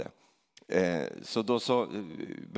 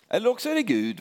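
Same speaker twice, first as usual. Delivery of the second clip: much higher, louder exclamation; excited punchline; 10 semitones higher, 5 dB louder, faster than usual. Acted. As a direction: pop it out with mock surprise. Preacher's rising punchline. (högt, förvånat utrop)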